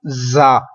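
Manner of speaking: जा clipped hard, the wrong way; the incorrect जा; harsh wrong sound. Shown as a demonstration. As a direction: show जा with a harsh edge. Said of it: "ये बिल्कुल दुरुस्त नहीं है".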